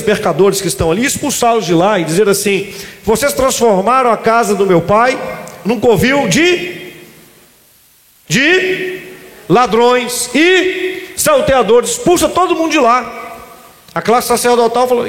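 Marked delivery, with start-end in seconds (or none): 3.0-11.9 slow, stretched rebuke from Jesus; wrathful slow declaration. Acted. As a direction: drag out each word, accusing. Jesus rebuking merchants in temple.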